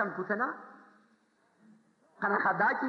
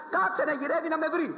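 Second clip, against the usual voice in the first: lightly voiced sister; 8 semitones higher than usual. Sister's mock worry, animated.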